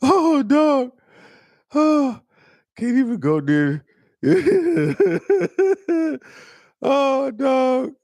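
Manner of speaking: high squeals of laughter through the words; can't get the words out for laughing; cracking up. Real, not acted. Host breaking up at a viewer's roast, laughing helplessly.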